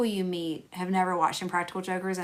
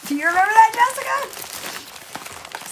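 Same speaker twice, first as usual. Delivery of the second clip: excited question; 13 semitones higher, 5 dB louder, slower than usual. Real, not acted. Calling to a viewer.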